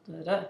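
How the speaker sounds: "da-da" with the second syllable stressed; light first "da", firm second "da"; iamb stress pattern. Shown as a demonstration. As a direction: say "da-da" as weak then strong. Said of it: "an unstressed plus a stressed syllable".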